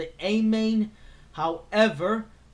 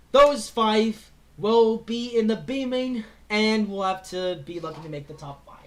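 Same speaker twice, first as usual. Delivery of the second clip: rusty, worn-out hoarse voice; 3 dB louder than usual. Real, not acted. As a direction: talk through a hoarse, tired throat. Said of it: "My voice is already getting rusty".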